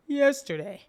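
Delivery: "Yesterday" punched high and loud; emphatic insistence. Real, not acted. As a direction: hit "Yesterday" hard as an exasperated correction. Insists on the day, exasperated.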